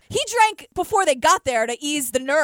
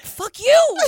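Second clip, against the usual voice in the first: loud, high insult; mock angry shout; 9 semitones higher, 6 dB louder than usual. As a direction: yell it at him. Retorted insult in retelling.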